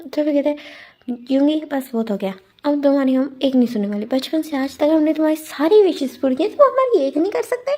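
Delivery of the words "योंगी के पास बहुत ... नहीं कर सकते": scolding father. Retold or imitated. Father scolding spoiled son.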